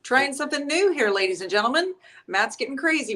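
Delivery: lightly hammed-up show announcer; playful announcer. Host announcing a new stunt to viewers, playful announcer. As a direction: kick off the show like a playful emcee. Mock showman intro to the stream.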